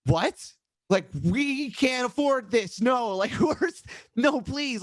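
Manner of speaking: half-laughing desperate plea; mock panic. Producer cancelled last minute, band panics, high laughing plea. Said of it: "And we're like".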